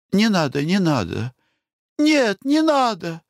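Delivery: high panicked protest; alarmed refusal. A narrator's reading. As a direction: push him away with your voice. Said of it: "замахала руками".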